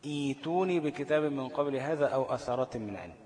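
recited, "ائتوني" opening on a long ee; verse recitation with no catch in "ائتوني"; hamza turned long i. Shown as a demonstration. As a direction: stretch ee at the start of "ائتوني". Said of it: "ده اسمه إيه؟ إبدال".

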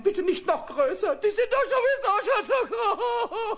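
pleading through giggles, rising; nervous laughing plea. Acted.

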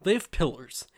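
lightly voiced Don Draper pitch; smooth ad-man pitch, lightly done. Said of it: "I don't really have a good Don voice".

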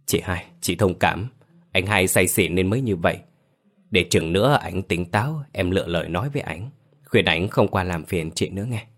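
áy náy. Acted. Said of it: "Cường áy náy".

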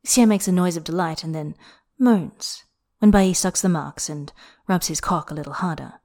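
ordinary delivery

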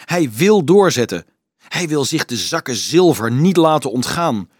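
high, loud desperate protest; crying out. A narrator's reading. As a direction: pour it out as if at breaking point. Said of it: "riep de monnik".

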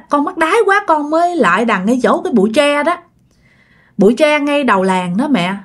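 mildly tearful son begging his mother; crying ghost son. Retold or imitated. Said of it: "vừa khóc vừa nói nha".

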